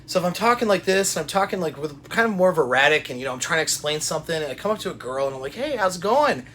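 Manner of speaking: high, loud, racing chatter; hyped-up, rapid-fire rambling; erratic state. Shown as a demonstration. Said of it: "put myself in erratic state right now".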